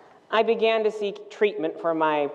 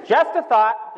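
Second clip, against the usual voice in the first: higher, punched tag line; punched aside; 5 semitones higher, 4 dB louder than usual. Real, not acted. Storyteller needling the thoughtless bro, punched high. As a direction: toss it out high as a pointed hint.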